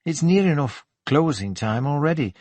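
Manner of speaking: lightly voiced Geordie lilt, pitched slightly up; chatty Geordie shop assistant. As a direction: invite him to tea with a hint of Geordie.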